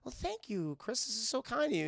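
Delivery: gently acted bashful thanks; softened Karen. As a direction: imitate a woman suddenly touched. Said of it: "the Karen facade fades away".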